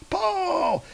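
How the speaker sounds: very high straining cry of Pull; the last Pull thrown way up in a squeal; shrill final yell. Acted. Grunthrock's final order to pull, shrill squeal. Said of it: "He's like".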